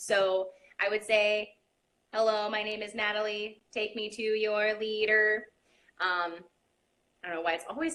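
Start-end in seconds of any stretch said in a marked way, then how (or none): 2.1-5.5 level, flat, mechanical monotone robot voice. Showing the midweight air example: robot voice. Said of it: "our example for that is robot".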